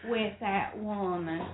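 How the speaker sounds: low, slow Southern politician; Bill Clinton. Acted. Retrying the Clinton quote for a co-host, low slow drawl. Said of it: "I got a better Bill Clinton".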